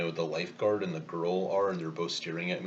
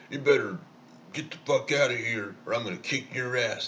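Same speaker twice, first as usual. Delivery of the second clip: loud, higher tough-guy threat, spat out; threatening yell; 5 semitones higher, 4 dB louder than usual. Retold or imitated. Meathead lifeguard yelling at the boy to leave. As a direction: sound like a meathead ready to fight.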